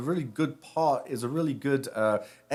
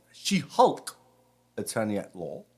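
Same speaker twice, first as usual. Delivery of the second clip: British accent; 3 semitones lower than usual. Shown as a demonstration. Rabbi repeats the show title for his congregation, in a British accent. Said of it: "Say it in my British accent".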